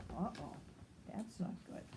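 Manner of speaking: soft whisper; whispered worry. Real, not acted. Reader turning to the child, whispered uh-oh. Worried aside.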